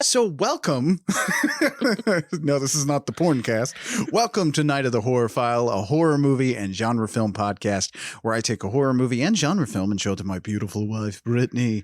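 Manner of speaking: booming podcast intro; game show announcer. Acted. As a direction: open the show like a game show host. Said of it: "sounding like a fucking, uh, game show announcer".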